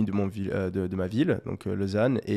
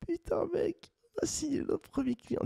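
breathless whisper of disbelief; excited whisper; 10 dB quieter than usual. Retold or imitated. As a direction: whisper it like a secret victory. Excited call to his friend.

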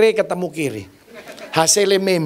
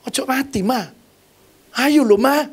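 pleading; 6 semitones higher than usual. Retold or imitated. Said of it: "Mama ngomong mbek Tuhan Yesus".

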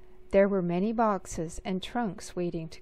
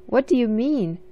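indignant; 3 semitones higher, 6 dB louder than usual. Acted. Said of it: "asked Sophie indignantly".

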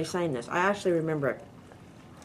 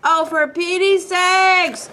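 slow, high, loud country exclaim; hillbilly exclamation; 10 semitones higher, 8 dB louder, much slower than usual. Acted. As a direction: let the hillbilly roots out. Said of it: "My hillbilly roots".

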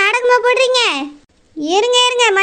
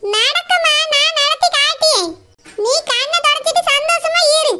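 higher, soothing mother's voice; comforting mother; 5 semitones higher than usual. Acted. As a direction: soothe your crying girl. Mother reassures daughter. (அழும் மகளைத் தேற்றும் அம்மா, மென்மையாக)

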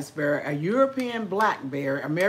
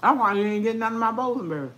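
laughing; much faster than usual. Real, not acted. Laughing tease.

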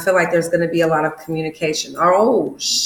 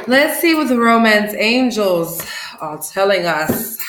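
slower, drawn-out teaser with the pitch lifted; playful teasing build-up; 3 semitones higher than usual. Shown as a demonstration. Tarot reader teasing her Pisces viewers, playfully drawn out. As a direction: tease the reveal like a show host. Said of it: "Here we go".

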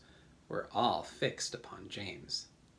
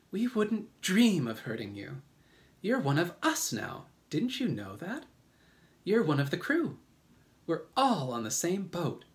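high-pitched reassuring ladybug; kindly; 7 semitones higher than usual. A narrator's reading. Ladybug welcomes James as one of the crew, kindly reassurance. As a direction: comfort him kindly in a higher voice. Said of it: "the ladybug said kindly".

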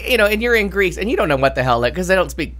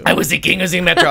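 half-yelled boast with a laugh in it; slightly raised, amused mock proclamation; mock yelling; 2 semitones higher, 4 dB louder than usual. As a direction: crow it like a self-declared king. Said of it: "just yelling at people that I was the king".

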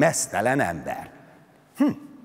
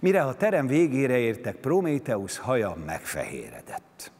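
plain reading voice

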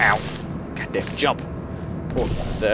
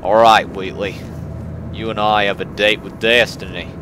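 lightly put-on Australian, slipping Southern; attempted Australian accent; 3 semitones lower than usual. Player addressing Wheatley, wobbly Australian-Southern accent. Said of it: "That sounded a bit more southern than it did Australian".

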